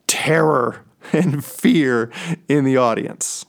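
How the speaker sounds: whispered slowly with a laugh; hushed, creeping whisper; spooky whisper. Acted. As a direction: breathe it like a ghost story. Dramatic whisper about terror.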